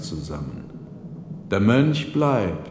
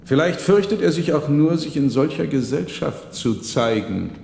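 monk's voice; 6 semitones higher than usual. A narrator's reading. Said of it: "fuhr der Mönch fort".

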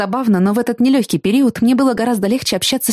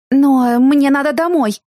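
blurted out sharply, higher and louder; sharp outburst; 6 semitones higher, 4 dB louder, slower than usual. A narrator's reading. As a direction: cry it out too sharply. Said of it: "выкрикнула я чересчур резко". (резкий возглас)

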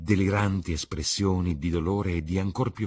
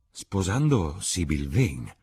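slow, steady "Sposando Sybil Vane" stated flatly; calm Dorian; 3 dB louder, slower than usual. Acted. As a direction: announce it as settled fact. Dorian answers calmly. (Dorian dice "Sposando Sybil Vane" lento e pacato)

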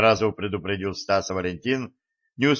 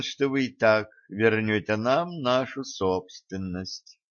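insinuating voice; 2 semitones higher than usual. Acted. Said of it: "вкрадчивый голос". (вкрадчивый шипящий голос)

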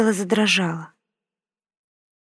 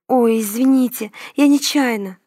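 higher, louder embarrassed apology; flustered apology; 4 semitones higher, 3 dB louder than usual. A narrator's reading. Girl apologizing to the dean after bumping him, flustered. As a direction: blurt it out, caught off guard. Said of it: "краснея ответила я".

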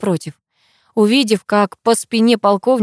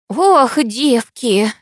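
tutting sigh; 4 semitones higher, much slower than usual. A narrator's reading. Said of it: "цокнула языком Анна Борисовна".

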